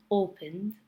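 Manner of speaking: "opened" said as "opend"; two syllables, "opened" ending in D; final D sound. Shown as a demonstration. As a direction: finish "opened" on D, no extra vowel. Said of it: "sounds like a D and without the vowel".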